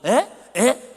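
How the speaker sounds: loud high puzzled "에?", repeated twice; mishearing "에?". Retold or imitated. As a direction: act out straining to hear. Himself mishearing because of his ear. (귀가 안 들려 크게 되묻는 "에?")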